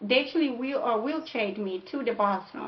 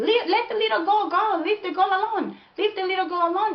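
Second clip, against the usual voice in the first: high, pitched-up scream; 8 semitones higher than usual. Retelling a stranger stopping an attack on her daughter: imitating a stranger screaming. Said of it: "he started screaming".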